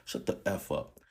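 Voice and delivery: unvoiced, cold "Shut the F up"; cold hiss. Father turning cold on his son, hissed. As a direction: hiss it through the teeth, icy. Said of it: "wiped his tears and said".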